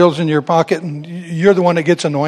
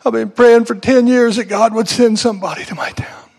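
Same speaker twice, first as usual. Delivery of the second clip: whispered, tearful plea of a weeping woman; hushed, choked-up whisper of a long-praying woman; 3 semitones higher than usual. Retold or imitated. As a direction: breathe it out like she's been crying for years.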